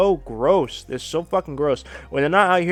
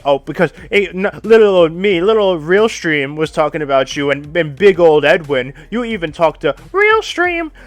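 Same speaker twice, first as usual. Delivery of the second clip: loud mocking sing-song; sarcastic mockery; 6 dB louder than usual. Real, not acted. Streamer mocking how she blamed him, loud sarcasm. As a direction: throw it back with scorn.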